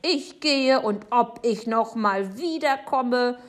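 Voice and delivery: high, loud huffy announcement; calling out. A narrator's reading. Neighbour storming out on Papa, exclaiming indignantly. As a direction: declare it loudly, slowing at the end. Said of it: "ruft Frau Segebrecht".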